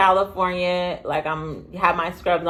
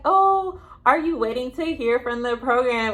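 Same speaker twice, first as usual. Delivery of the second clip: mock receptionist; 6 semitones higher than usual. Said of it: "she's like".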